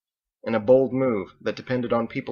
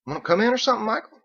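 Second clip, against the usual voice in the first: surprised invitation; 13 semitones higher, 4 dB louder, faster than usual. Acted. Biggs invites Michael, high.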